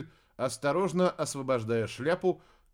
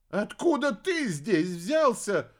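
higher, slow bewildered question; confused witch; 7 semitones higher, 4 dB louder, slower than usual. A narrator's reading. Witch bewildered by the alligator, slow and confused. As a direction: ask it completely lost. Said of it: "окончательно растерялась Зарифа".

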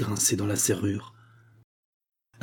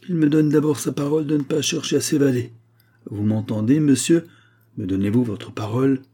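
a higher, insistent officer pressing for an answer; demanding officer; 4 semitones higher than usual. Acted. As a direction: press him hard for his word. Major demands word of honour. (officier exigeant, voix plus haute)

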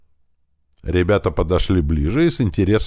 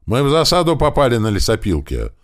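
higher, louder shout over gunfire; loud yelling; 6 semitones higher, 3 dB louder than usual. Acted. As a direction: yell the ambush report. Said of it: "заорал Михайлов особенно громко".

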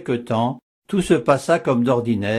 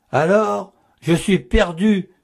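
higher, frantic exclamation of doom; distraught cry; 6 semitones higher than usual. A narrator's reading. Nun caught with the letter, distraught cry. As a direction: cry out as if all is lost. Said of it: "s'écria-t-elle ... d'un air égaré".

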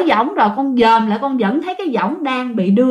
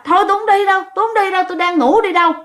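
uncle refusing; 7 semitones higher, much faster than usual. Retold or imitated. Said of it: "chú mới nói rằng á là".

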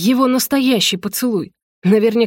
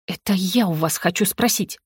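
softer, venomous hiss at him; angry hiss; 4 dB quieter than usual. Acted. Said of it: "зло прошипела я ему".

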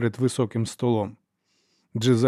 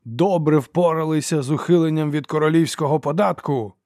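barked in fury; 4 semitones higher than usual. A narrator's reading. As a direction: turn on them with sudden rage. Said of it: "гаркнув він".

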